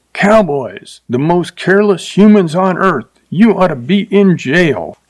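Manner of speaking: high, outraged mock scream at the cowboy. A narrator's reading. Upset lady screams at the careless cowboy, a high shrill mock scream. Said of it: "She looked at him and screamed".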